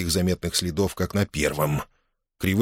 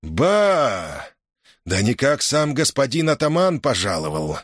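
feigned surprise; 5 semitones higher than usual. Acted. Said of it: "с напускным удивлением воскликнул".

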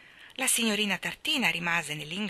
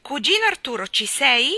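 loud, higher call through the door; 7 semitones higher, 10 dB louder than usual. Acted. Mary Poppins calling through the locked door, loud. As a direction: call in, then ask. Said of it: "chiamò attraverso il buco della serratura".

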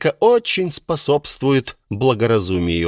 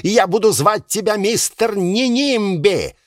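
venomous sarcasm; 6 semitones higher than usual. Acted. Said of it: "Мэр взбешён".

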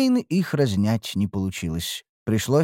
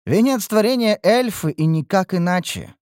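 haughty scoffing; 8 semitones higher than usual. A narrator's reading. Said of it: "фыркнула Лейтарис".

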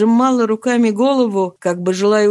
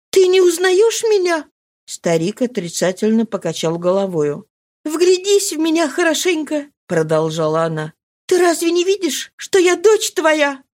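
high pleading voice; imploring; 8 semitones higher than usual. Acted. Marie begging her father to recognise her: high, imploring. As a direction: beg him to know her.

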